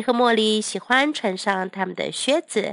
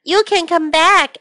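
kindly; 7 semitones higher, 6 dB louder than usual. A narrator's reading. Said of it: "Millie and Molly said kindly".

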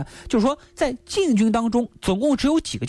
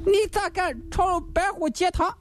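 higher, accusing magistrate's voice; stern official; 9 semitones higher than usual. Acted. Gao Qiu accusing Lin Chong of raiding the hall, raised and stern. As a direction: bear down on him like a judge.

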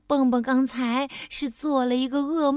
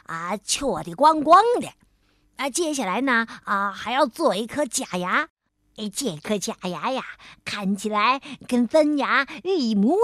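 chatty beaver dentist; 4 semitones lower than usual. Acted. Dentist explains with filler 啊.

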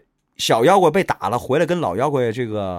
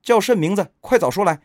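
forced brave shout; 7 semitones higher, 3 dB louder than usual. A narrator's reading. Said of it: "于是妖精硬着胆喝道".

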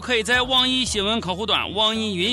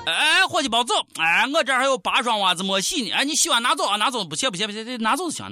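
calling after someone; 2 semitones higher than usual. Acted. Calling after sock thief.

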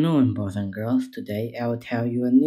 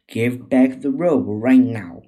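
louder, furious command; furious monkey calling for the robe; angry demand; 5 dB louder than usual. Acted. Furious Wukong confronts the bear.

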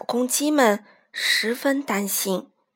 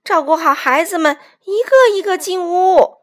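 raised, urgent instructions; loud shout; 7 semitones higher, 8 dB louder than usual. A narrator's reading. Mother hen ordering the flock indoors, loud shout. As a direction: call out orders, lifting at the end. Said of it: "卡梅拉大喊道".

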